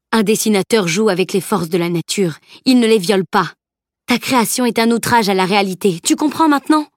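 put-on old master scolding Camille, rising to a sharp question; stern master. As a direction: lecture the pupil firmly.

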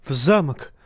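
plain reading voice

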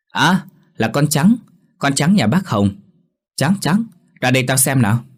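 put-on child's gleeful call to the dog; happy little boy spotting his dog; excited child calling out; delighted boy. A narrator's reading. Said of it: "giọng thằng Nhất vang lên thích thú".

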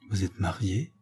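hushed, soft question; low voice. A narrator's reading. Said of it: "dit-elle à voix basse". (à voix basse)

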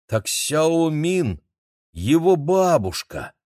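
медленно тянет слова; тяни слова, догадываясь; протяжно. A narrator's reading. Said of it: "протянул Игорь". (протяжно, медленно)

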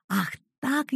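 ordinary delivery, nothing marked

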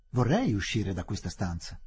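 light, unbothered reply; Fielding calmly pointing at the blocking officer; lightly. Acted. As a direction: toss it off casually. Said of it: "disse Fielding leggermente".

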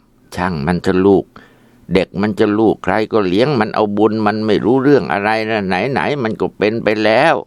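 calm her down kindly; grandma comforting her upset daughter; soothing. Acted.

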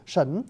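"sẩn" with an initial S-H sound; pronunciation demo. Shown as a demonstration. Teacher repeating the S-H reading for listeners, pronunciation demo. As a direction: say "sẩn" starting on a hushing sh. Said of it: "là âm S H quý vị".

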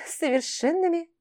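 high, questioning doubt; doubtful echo. Acted. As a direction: repeat it in disbelief. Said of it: "чуть ли не с сомнением переспросила я".

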